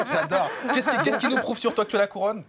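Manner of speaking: laughing through the question; amused laughter, then teasing. Real, not acted. Host laughs at the singer's crown claim, laughing.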